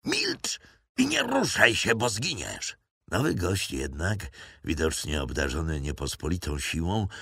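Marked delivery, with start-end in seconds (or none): 0.1-2.8 yelling at the pinned man to freeze; shouted threat. A narrator's reading. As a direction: bark the order down at him. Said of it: "krzyknąłem".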